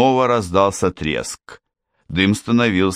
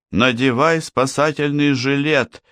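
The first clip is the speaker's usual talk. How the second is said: higher shouted command; shouting; 8 semitones higher than usual. Acted. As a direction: yell it across the flooding cabin. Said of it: "закричала Мэг".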